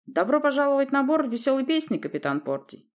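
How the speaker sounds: loud, high, crisp report to the captain; clipped soldierly greeting. A narrator's reading. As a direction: rap out each word like a soldier. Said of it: "отчеканил он".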